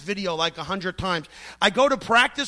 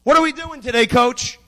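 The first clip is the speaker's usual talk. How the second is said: calling out; 6 dB louder than usual. Acted. Judo student asking coach about today's practice, calling out. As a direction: sing out an eager question across the room.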